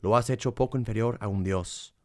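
solemn, reverent psalm reading. Acted. Reads a psalm.

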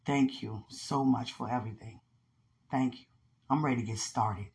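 low, soft personal prayer. Real, not acted. Woman thanking Father for a ministry and partner, prayerful. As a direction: give thanks softly and low, sincerely.

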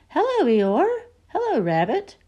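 high small kangaroo voice; high childlike greeting; Roo's voice. Acted. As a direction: pitch it way up like a little kid. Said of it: "said Roo".

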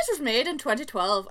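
put-on light, half-hearted Scottish accent; attempted Scottish accent. Podcaster trying out Scottish for a film, attempted Scottish accent. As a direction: try a Scottish accent and not quite get it. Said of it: "trying to do a Scottish accent".

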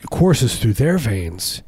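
very slow, drawn-out; dramatic slow reading. Acted. Describing power-hungry rebirthers, very slow dramatic delivery. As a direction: stretch it out for drama.

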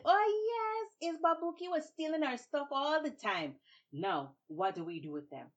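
high, loud gloating; triumphant crowd. Acted. Villagers gloating over Babuki, high and loud. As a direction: gloat over the caught thief. Townspeople catch the thief.

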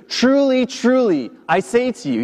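each TRULY pitched high and falling; emphatic statement. Retold or imitated. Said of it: "this is an emphatic statement".

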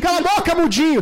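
imitating the classmate jeering; mock taunt. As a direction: tease him like a classmate, laughing. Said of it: "bateu na minha cabeça e falou".

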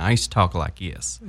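light demo of a Southern twang; Southern accent. Shown as a demonstration. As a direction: slip back into a Southern accent. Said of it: "like a really Southern accent".

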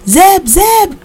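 high, loud calls of Zeb up the stairs; frantic calling. A narrator's reading. Mother searching the house for Zeb, high frantic calls. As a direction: call out in panic for her husband. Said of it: "Rufus's mother called".

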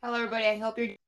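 flat robotic voice, stuffed-up sinuses. Real, not acted. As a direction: sound like a robot with a blocked nose. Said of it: "You kinda sound like a robot there".

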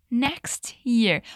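"Next year" run together as one word; linked pronunciation. Shown as a demonstration. Teacher modelling "Next year" for students, words joined. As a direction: glide "Next year" smoothly without a break. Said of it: "Olha só a pronúncia, que sai toda juntinha".

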